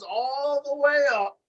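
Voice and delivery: all the way up, climbing high and drawn out; rising with the lift. Retold or imitated. Wrestling fan recounts a big lift, slow rising pitch. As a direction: stretch it upward like a body being hoisted.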